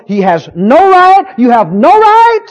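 loud, slow, high declaration; preacher showing how to speak boldly; strong and bold. Shown as a demonstration. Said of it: "say it strong and bold".

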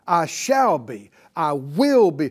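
bold, slow statement of certainty; definite declaration. Shown as a demonstration. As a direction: declare it like it's already done. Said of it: "Do you hear how definite that is".

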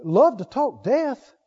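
slow, puzzled echo of love to talk death; doubtful listener questioning the preacher; incredulous question. Retold or imitated. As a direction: ask it like the idea is absurd. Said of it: "Now you wanna say".

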